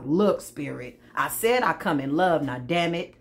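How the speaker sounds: low, fed-up plea to Spirit; exasperated believer. Acted. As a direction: plead your case, mildly exasperated. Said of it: "You like".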